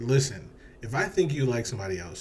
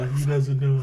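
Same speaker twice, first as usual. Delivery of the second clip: joking whisper; 4 semitones higher, 6 dB louder than usual. Acted.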